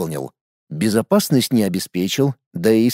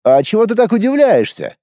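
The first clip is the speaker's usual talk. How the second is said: higher, puzzled question; startled, pitched-up query; taken aback; 8 semitones higher than usual. A narrator's reading. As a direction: ask it thrown by the other's reaction. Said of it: "опешил он".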